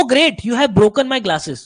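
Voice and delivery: slow, drawn-out fake delight; sarcastic. Shown as a demonstration. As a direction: praise it while meaning the opposite. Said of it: "जैसे हम बोल रहे हैं". (धीमा, व्यंग्य भरा लहजा)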